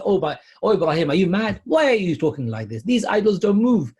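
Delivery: angry crowd. Acted. People scolding Ibrahim, are you mad.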